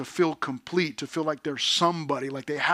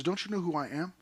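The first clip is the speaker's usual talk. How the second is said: hushed disbelief; 7 dB quieter, faster than usual. Retold or imitated. Repeat of Saul's humble question.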